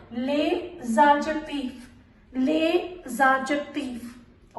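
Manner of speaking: "ले जाजतीफ" joined with a z sound; liaison. Shown as a demonstration. Teacher showing how words join, liaison on "ले जाजतीफ". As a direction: link "ले" into "जाजतीफ" with a z. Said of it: "join करके पढ़ेंगे".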